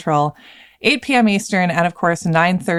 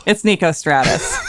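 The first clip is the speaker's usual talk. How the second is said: laughing. Real, not acted. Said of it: "plain retake after the announcer take".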